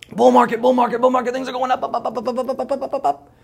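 high, loud cartoonish chant of bull market; sing-song mockery of market cheerleaders; squeaky hype man chanting up, up, up.

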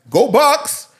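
high, loud fan cheer; shout. Retold or imitated. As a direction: yell it like a fan in the street.

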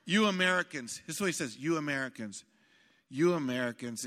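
lightly voiced gruff pastor, amused; a hint of a big gruff man shaking his head; gruff voice quote. Preacher retelling the Brazilian pastor teasing Americans, lightly gruff. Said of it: "this big guy that had this gruff voice".

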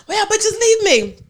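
high, stretched-out imitated whine; mock wail. Imitating the abandoned friend confronting everyone, in a drawn-out wail.

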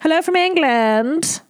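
lightly put-on English accent, sweet; a sweet English fan greeting her idol, slow. Host reading an English fan's hello in a light English accent. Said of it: "She writes".

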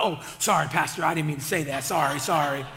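low, hurried mock apology; flustered apology. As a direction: play a churchgoer backpedaling to the pastor. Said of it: "something comes out your mouth".

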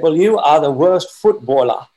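retold put-down in a Geordie accent; imitated Geordie accent. Coach berating a young trialist in the dressing room, imitated Geordie accent. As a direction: mimic a fuming coach's Geordie accent, a touch emphatic. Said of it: "with his big Geordie accent".

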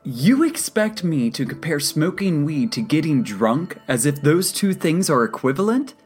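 high, loud indignant tirade; incredulous, heated protest; outraged rant. A narrator's reading. Angry patient argues with counselor.

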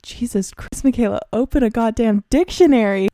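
mock scolding myself; exasperated future self; mock exasperation. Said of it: "I'm gonna be like".

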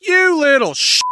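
very high mock angry squeal; exasperated Demeter. Demeter cursing her daughter in a hammed-up high voice. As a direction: scold her in comic fury. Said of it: "Demeter's like".

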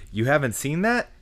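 high rising catchphrase question; uptalk. Pretend. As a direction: say the show title with a rising lilt. Names the grading scale.

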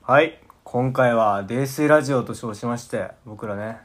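tipsy, slurred chatting. Real, not acted. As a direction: talk like you've had a few. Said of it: "全員泥酔しておりますね".

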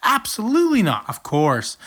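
playful make-believe phone call; pretend phone chat. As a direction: chat on a toy phone for a toddler. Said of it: "short conversation".

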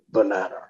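banana ending in an R sound, "bananar". Shown as a demonstration. Coaching a Liam Neeson impression, "banana" said as "bananar". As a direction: say "banana" with an R on the end. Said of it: "just say the word".

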